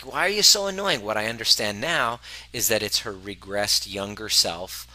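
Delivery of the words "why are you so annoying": much higher exasperated whine; mock annoyed complaint to a partner; mock exasperation. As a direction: throw it at her in irritation.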